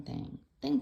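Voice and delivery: "thing, thing" sung out high with a playful rise; "thing, thing" tossed up high, playful and teasing; sing-song thing. Pretend. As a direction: bounce "thing, thing" up high like a little tune. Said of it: "Why not do the thing?".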